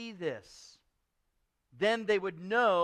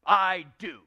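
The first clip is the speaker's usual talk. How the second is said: Scrooge; 10 dB louder than usual. Acted. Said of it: "said Scrooge".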